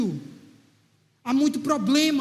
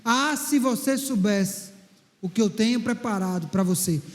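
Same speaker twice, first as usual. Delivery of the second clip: voice of God; 5 semitones lower than usual. Acted. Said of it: "aquela voz continuou ecoando dentro de mim".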